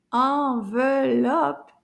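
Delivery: "enveloppe" drawn out in slow, even syllables. Shown as a demonstration. Teacher counting syllables with class, slow separated beats. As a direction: count out "enveloppe" slowly, beat by beat. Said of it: "Combien de syllabes?".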